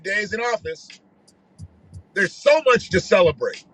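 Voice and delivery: lightly imitated white campaign staffer; Shelly. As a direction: read the campaign text in a mock white voice. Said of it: "I'm white voice".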